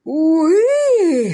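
very high, loud yelp; anguished cry. A narrator's reading. Magnate yelps at the blow, very high and loud. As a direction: let out a stricken yelp. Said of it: "сказал магнат".

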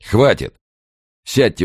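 loud sharp bark. A narrator's reading. Policeman cuts them off.

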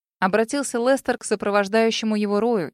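ordinary delivery, nothing marked

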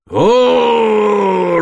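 long, loud, high battle roar. Acted. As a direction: bellow as you lunge. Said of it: "заревел Глен".

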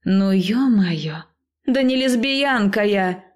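high, slow, outraged insistence; loud exasperated denial. Acted. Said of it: "немного громко заверила я её".

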